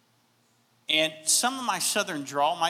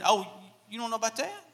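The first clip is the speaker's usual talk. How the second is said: playful Southern American drawl, slightly higher; 3 semitones higher, 5 dB quieter than usual. Pretend. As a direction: lay on a Southern drawl, like telling a tall tale. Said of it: "my southern drawl is gonna come in".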